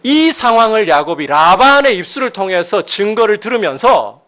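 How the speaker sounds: loud, high sermon delivery; impassioned preaching. Real, not acted. Preaches at full force.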